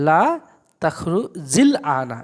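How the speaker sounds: তাখরু জিল আনা linked, slowly, with জিল carrying the link; joined reading. Shown as a demonstration. Teacher slowly demonstrating the joined reading, unhurried. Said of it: "তো কীভাবে পড়বো একটু দেখে নেন".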